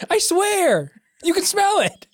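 high, giggling through the words; laughing. Real, not acted. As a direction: barely hold back the laughter.

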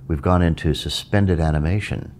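explaining meditation to listeners, weight on suspended; stress on suspended. Shown as a demonstration. Teacher explains to listeners, stressing suspended. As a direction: lean on the word suspended, the rest even. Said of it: "with the emphasis on the word suspended".

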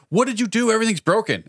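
high, mock accusing question; mock the coworkers' gotcha tone; imitating coworkers blaming him for the outage. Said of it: "they're like".

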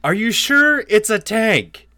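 loud, high holler; doubtful shout. Acted. Herschel calls from the slowing tank, shouting in doubt. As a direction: shout the question across a distance.

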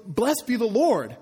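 hammed-up holy mom praising God; mock pious mother. Pastor mimicking Micah's mother blessing the Lord, hammed-up pious. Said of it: "his mom goes".

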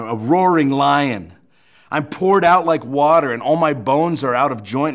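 fervent Bible reading; scripture reading. Acted. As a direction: read the lament with weight. Continues reading Psalm twenty-two.

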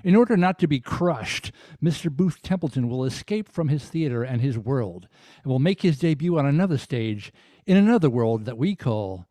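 measured TV narrator intoning an eerie introduction; dramatic prologue read. Acted. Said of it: "If you could give that a read".

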